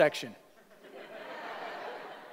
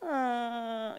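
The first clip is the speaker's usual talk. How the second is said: sinking-feeling groan; 5 semitones higher, 8 dB quieter than usual. Acted. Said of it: "imagine that feeling that came over them".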